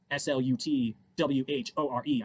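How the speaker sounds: "S L U T W H O R E" said slowly, letter by letter; spelled out. Shown as a demonstration. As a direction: spell out each letter instead of saying the word. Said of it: "I don't wanna say".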